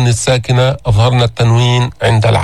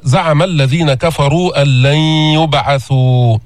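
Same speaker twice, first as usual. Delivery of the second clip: slow, measured tajweed recitation; Quran recitation. Shown as a demonstration. Teacher recites the verse for the class. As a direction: chant the verse slowly and carefully.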